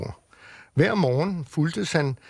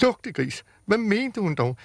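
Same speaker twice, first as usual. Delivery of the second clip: puzzled; 5 semitones higher than usual. Acted. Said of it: "tænkte Julius forvirret".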